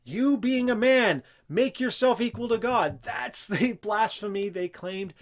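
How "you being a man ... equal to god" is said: accusing charge. Retold or imitated. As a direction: hurl the charge at him like an angry accuser. Accusers' charge against Jesus quoted.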